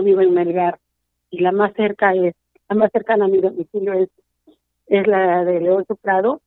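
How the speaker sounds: real tears while telling the story; crying. Real, not acted. A mother crying as she tells the journalist about her daughter. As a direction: voice low and tearful, fighting back sobs.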